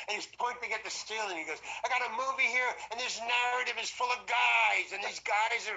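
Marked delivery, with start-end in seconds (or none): 1.8-5.8 raised, higher, insistent retelling; mock director working himself up; worked-up director. Director pleading his case about the movie, worked up.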